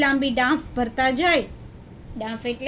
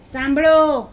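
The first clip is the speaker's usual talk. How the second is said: louder, drawn-out call to listen; announcing; 7 dB louder, slower than usual. Acted. Camel tells the jackal to listen, announcing. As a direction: call out for everyone's attention.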